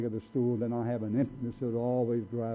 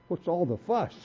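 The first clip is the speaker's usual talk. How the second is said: giggling through the words; amused, tipsy brush-off; laughing drunk; 5 semitones higher, 5 dB quieter than usual. Retold or imitated. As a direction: chuckle it out like a happy drunk.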